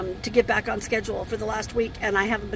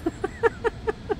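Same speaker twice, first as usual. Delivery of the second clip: rueful laugh; 13 semitones higher than usual. Real, not acted. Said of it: "I don't know why I'm laughing".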